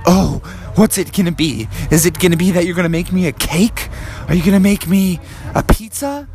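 lightly voiced eager kid frog; Froggy. Froggy guesses at the surprise, eager child voice. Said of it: "And Froggy said".

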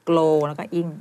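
glow, then a bare "ing"; syllable breakdown. Shown as a demonstration. Coach fixing a student's glowing, split into syllables. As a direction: split it as glow plus อิง, no "ling". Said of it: "ไม่ต้องลิ่ง อันนี้ไม่มีลิ่ง".

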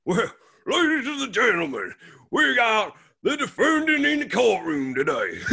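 hammed-up Southern lawyer accent; Southern old-time lawyer. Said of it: "like, the old-time sort of lawyer".

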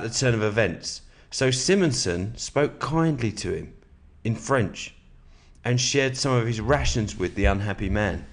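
steady, measured book reading; calm nonfiction narration; reading aloud. Acted. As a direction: read the passage to your listener. Reads a war biography aloud.

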